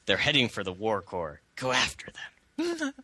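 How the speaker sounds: hammed-up Spanish accent, stretching the end. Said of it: "Kinda like that".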